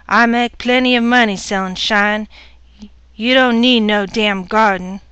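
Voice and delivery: loud, bullying rant; angry husband. Acted. Husband shouting his wife down over her garden. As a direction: throw your weight around, loud.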